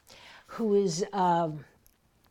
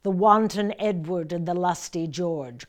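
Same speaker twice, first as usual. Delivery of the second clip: declaimed verse; 3 dB louder than usual. Shown as a demonstration. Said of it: "You can take a breath".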